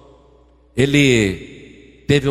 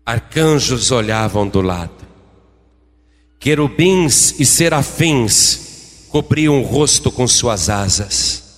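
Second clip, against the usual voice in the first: solemn sermon narration; 4 semitones lower than usual. A narrator's reading.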